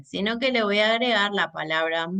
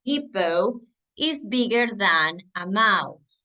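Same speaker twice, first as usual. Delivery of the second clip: slow model sentence; slower than usual. Shown as a demonstration. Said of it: "Por ejemplo".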